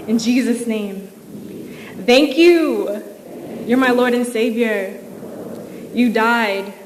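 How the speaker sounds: slow, earnest prayer line by line for the room to echo; led prayer. Acted. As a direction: pray slowly so they can repeat. Leads a prayer to repeat.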